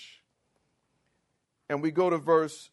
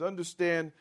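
ordinary talk, nothing marked

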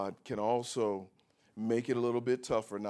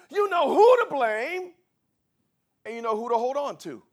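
high, loud, slowed preacher's cry; preaching at full force; 14 semitones higher, 8 dB louder than usual. Acted. Pastor preaching hard to the congregation, shouting. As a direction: build to a ringing climax.

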